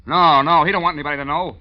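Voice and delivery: sudden loud alarmed denial; panicked no. Acted. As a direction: blurt it out in a rush of fear.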